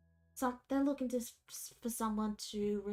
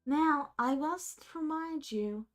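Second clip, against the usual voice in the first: informant npc. Acted.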